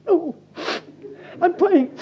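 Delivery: sending up a put-on prayer; mock pious gasp. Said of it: "suddenly in a prayer go".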